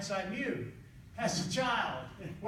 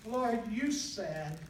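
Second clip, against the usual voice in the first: higher, half-laughing imitation of a tearful boy; mock crying; 4 semitones higher than usual. Boy complaining to the Lord about getting in trouble, mock tearful and higher. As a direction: whine it like a kid in tears, lightly. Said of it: "I'm crying".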